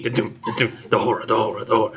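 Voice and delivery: mock heartbeat chant; heartbeat drumming. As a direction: pulse it like a heartbeat. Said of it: "hearing in his head, like, beating".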